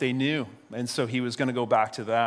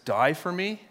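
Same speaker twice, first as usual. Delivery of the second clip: higher, questioning rise; retold disbelief; 6 semitones higher than usual. Preacher voicing Jesus questioning Simon's pledge, mildly incredulous. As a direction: gently challenge the pledge as a question.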